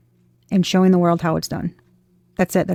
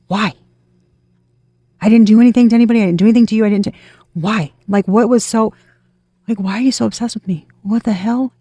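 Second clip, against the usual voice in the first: shocked protest; 3 semitones higher, 3 dB louder, faster than usual. Pretend. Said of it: "you're gonna be like".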